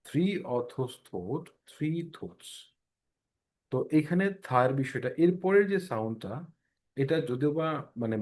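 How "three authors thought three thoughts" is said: "Three authors thought, three thoughts" very slowly, light th each time; stretched drill, soft th on "three"; slow tongue twister. Shown as a demonstration. Teacher repeating the th twister for students. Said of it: "যেমন ধরেন".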